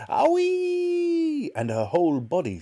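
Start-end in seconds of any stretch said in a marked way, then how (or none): 0.1-1.5 high, louder yelp of pain; granny yelping as the medicine hits; yelling grandma. Acted. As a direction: yelp it like a scalded old woman. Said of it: "Grandma yelled".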